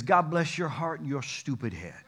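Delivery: "God bless your heart and your stupid head" at normal pace, the insult said plainly; blunt true meaning. Retold or imitated. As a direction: drop the sweetness and let "stupid head" land. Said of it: "Here's what they mean".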